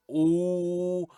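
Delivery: fed-up groan of disbelief; exasperated. Retold or imitated. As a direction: sound totally over it. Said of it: "Just the sense of just like".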